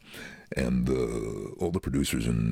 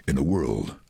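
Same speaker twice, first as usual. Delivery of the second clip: trailer voice. Shown as a demonstration. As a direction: intone it like an epic trailer. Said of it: "response ... was very positive".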